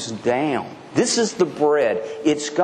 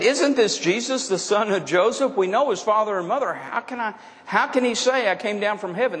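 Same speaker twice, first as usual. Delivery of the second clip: mock doubting crowd; 5 semitones higher than usual. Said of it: "began to mutter in disagreement".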